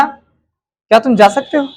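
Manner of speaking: slow, drawn-out "क्या तुम जा सकते हो?" rising on "जा"; slow polite question. Shown as a demonstration. Teacher demonstrates the first way to the class, slow and gentle. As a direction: ask gently and slowly, letting "जा" rise. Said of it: "मैं तीन तरीके से बोलूंगा".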